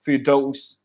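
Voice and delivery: name read the Malayalam way, harder t in "Fidos"; Malayalam pronunciation. Shown as a demonstration. Vlogger reading a follower's name, in Malayalam pronunciation. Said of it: "I'm gonna read the names in Malayalam".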